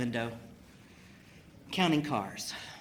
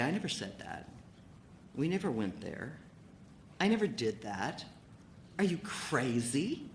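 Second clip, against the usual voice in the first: straight-faced denial; 6 dB quieter than usual. Retold or imitated. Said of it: "with a very straight face and he'd say".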